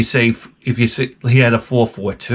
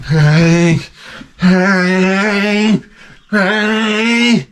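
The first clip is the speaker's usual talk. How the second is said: rising, louder protest, each hey higher; angry hey; 9 semitones higher, 4 dB louder, much slower than usual. Retold or imitated. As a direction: shout him down, climbing each time. Angry coworker shouting back.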